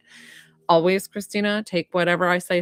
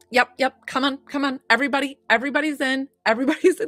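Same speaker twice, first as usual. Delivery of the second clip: imitating an eager hostess, higher; big energy; 5 semitones higher, faster than usual. Medium voices mom inviting everybody in, big energy. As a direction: herd everyone in with quick, repeated invitations. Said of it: "the biggest energy".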